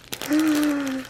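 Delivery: soft, high gasp; quick intake of breath, quietly. Real, not acted. Vlogger opening a fan's package, gasp.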